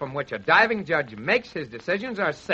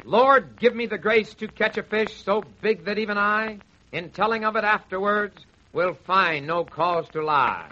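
solemn recitation. Acted. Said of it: "A little mood music, please".

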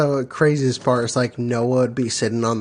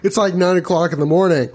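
higher, quick mock-dad nagging, laughing; Mochi's dad; 4 semitones higher, faster than usual. Dad nagging a late sleeper, lightly imitated. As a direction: imitate a dad hurrying his son up. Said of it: "he was like".

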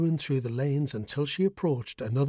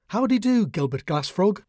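bright, much higher greeting called out loud; cheery call; 6 semitones higher, 5 dB louder than usual. A narrator's reading. Boo greets Gilbert Glassfrog, calling out cheerfully. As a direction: call out a happy hello across the forest. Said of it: "she called with a smile".

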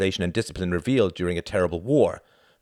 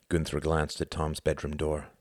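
plain reading voice

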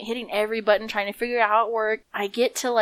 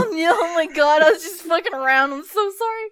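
put-on higher, panicky kid begging mom; mock crying plea; 9 semitones higher, 5 dB louder than usual. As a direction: blurt the apology like a scared kid. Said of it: "I went crying to my mom".

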